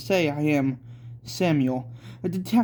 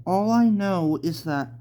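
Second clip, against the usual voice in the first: put-on child voice; 3 semitones higher than usual. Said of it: "said Sarah".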